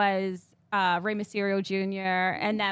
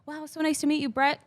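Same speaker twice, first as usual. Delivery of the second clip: kind greeting; 6 semitones higher than usual. Retold or imitated. Retold greeting from wrestler's wife.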